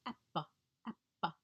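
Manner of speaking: "appa" with the jaw simply dropping; modeling "appa". Shown as a demonstration. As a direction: coax the child with a simple "appa". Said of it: "drop their jaw".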